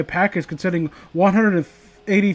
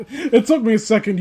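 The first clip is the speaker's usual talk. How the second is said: laughing; 4 semitones higher than usual. Real, not acted. Gets the joke, laughs.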